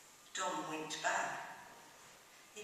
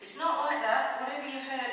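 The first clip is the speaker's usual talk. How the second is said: higher-pitched, insistent protest; emphatic denial; 7 semitones higher, 6 dB louder than usual. A narrator's reading. Dom denying he is rich, insistent. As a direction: push back firmly on the rumour. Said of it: "shook his head emphatically".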